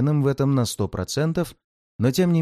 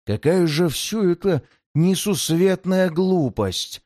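scornful demon voice. Acted. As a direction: sneer at the mortal fools.

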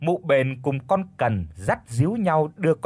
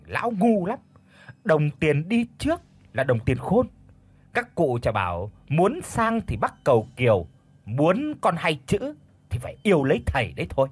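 snapping irritably; 3 semitones higher than usual. Acted. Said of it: "Mụ Bền thì gắt gỏng".

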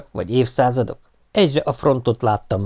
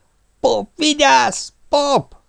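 much higher, urgent calling; anxious calling out; 14 semitones higher, much slower than usual. Acted. Mother calling to her son near the rocket, alarmed cry.

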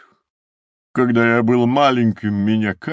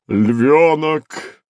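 firm, louder call of his name; resolute call; 7 semitones higher, 5 dB louder than usual. Acted. Rhino turning resolutely to the lion cub, firm call. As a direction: call him sharply, decided. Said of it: "решительно сказал носорог".

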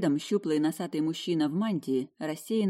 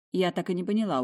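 usual speaking voice

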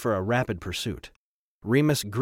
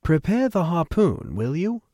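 high-pitched but eased-off request; calm it down to a polite order; calmer voice; 7 semitones higher, 4 dB louder than usual. A narrator's reading. Trevor asks Remus for the harpoon, calmer. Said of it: "spoke in a calmer voice".

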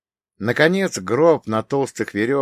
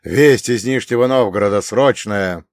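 urgent; 6 dB louder than usual. Acted. Urgent report from a prince.

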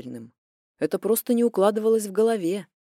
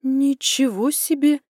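shocked; 5 semitones higher, 5 dB louder, slower than usual. A narrator's reading. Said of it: "потрясённо произнесла я тихим голосом".

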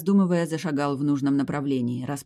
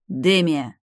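loud call of her name; 2 semitones higher, 6 dB louder than usual. A narrator's reading. Hero calling Demia back to him. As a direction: shout after her as she leaves.

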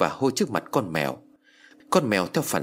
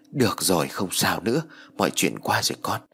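reassuring; 3 semitones lower than usual. Acted. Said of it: "gật đầu trấn an nói".

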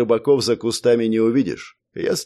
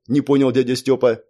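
usual speaking voice

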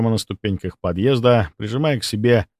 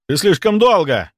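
loud, high angry bark; barking angrily; 9 semitones higher, 5 dB louder than usual. Acted. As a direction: bark it at him. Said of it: "рявкнул он".

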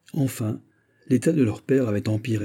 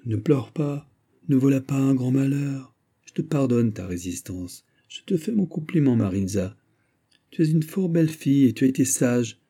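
mock kindly murmur; 3 semitones higher than usual. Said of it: "de son accent le plus bienveillant".

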